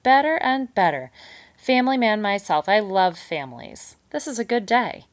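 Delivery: loud, high gleeful cheer; gloating beaver. A narrator's reading. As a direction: crow over the good news. Beaver gloats over news.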